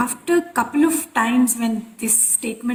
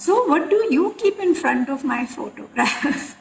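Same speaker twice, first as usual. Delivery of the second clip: teasing guru's question, pitched up; joking; 4 semitones higher than usual. Retold or imitated. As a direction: poke fun with a lilting, higher question. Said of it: "he started joking with us".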